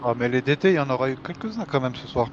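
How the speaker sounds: parler en mâchant une gaufre; la bouche pleine de gaufre. Real, not acted. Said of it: "Parle pas la bouche pleine". (en mâchant)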